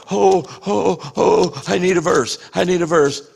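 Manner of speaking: flustered, scrambling mock panic. Believer scrambling for a verse mid-battle, mock panic. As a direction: fumble like you're lost.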